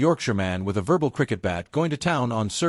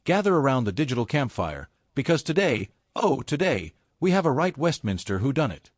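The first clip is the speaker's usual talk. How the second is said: ringmaster. Acted. YouTube host circus-style opening.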